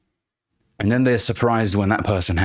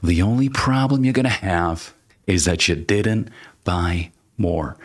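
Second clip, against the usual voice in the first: Jordan Belfort impression. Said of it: "Wolf of Wall Street, you'll remember this scene".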